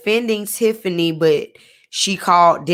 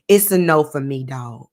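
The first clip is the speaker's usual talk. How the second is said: Randy Jackson voice; 5 semitones lower than usual. Shown as a demonstration. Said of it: "In my Randy from American Idol voice".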